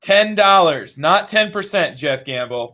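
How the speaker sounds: emphatic TV sales pitch; infomercial voice. Pretend. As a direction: hammer the price like a pitchman. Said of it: "You got the infomercial voice on".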